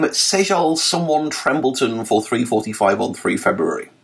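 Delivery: reading Siri's garble. Retold or imitated. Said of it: "Next came".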